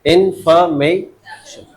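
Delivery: इन्फॉर्मेशन broken slowly into four separate syllables. Shown as a demonstration. Teacher asking how many syllables the word has, इन्फॉर्मेशन split syllable by syllable. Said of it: "इस शब्द में कितने syllables हैं".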